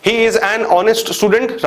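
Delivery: very slow, word by word; slow dictation. Shown as a demonstration. Teacher reading a correct example aloud, very slow. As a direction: dictate the sentence carefully. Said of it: "right है sentence".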